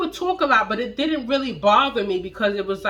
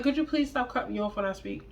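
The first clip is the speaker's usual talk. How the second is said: quiet, composed, a bit quicker; calm request; 6 dB quieter, faster than usual. Retold or imitated. Repeating her calm request to boyfriend, quiet and composed. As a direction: keep it soft and level like nothing's wrong.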